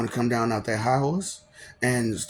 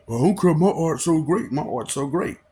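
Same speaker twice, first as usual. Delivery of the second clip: mocking boast; 4 semitones higher, 5 dB louder than usual. Mimicking boastful fighter's claim.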